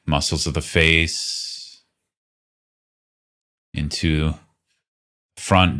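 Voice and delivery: calm, unhurried guiding voice with long pauses; guided meditation. Real, not acted. Teacher leading listeners through a body scan, guided meditation. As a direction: lead a body scan gently, leaving space between phrases.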